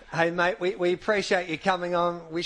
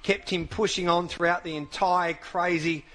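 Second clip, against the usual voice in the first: solemn statement reading. Acted. Host reads the widow's statement on air, solemn and measured.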